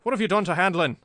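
loud, high-pitched accusation; angry demand. A narrator's reading. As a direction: cut in sharply, demanding an answer. Jimmy cuts in on the villain.

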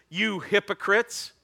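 slow, high accusing call; Jesus condemning. Acted. Jesus accusing the religious elite, slow and pointed. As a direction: drag out the accusation. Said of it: "he's gonna raise up his voice".

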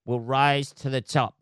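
slow, dreamy preaching of a saying; mock hippie mantra. To the audience, mocking his old self: slow, dreamy mantra. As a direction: drawl it out like a naive optimist. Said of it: "I'm one of these people who".

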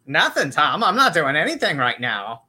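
swooping, lightly camped-up delivery; flamboyant. Acted. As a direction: answer with a flamboyant lilt.

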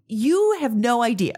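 lightly put-on old-timer lecture, stretched YOU; a hint of the world-weary elder; lecturing old-timer. Mom lecturing her kids, lightly playing the old-timer. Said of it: "I sound a million years old".

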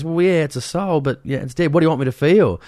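high, incredulous mock of Steve. Mocking Steve answering the old lady, high and incredulous. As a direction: toss it up in disbelief. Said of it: "And he goes".

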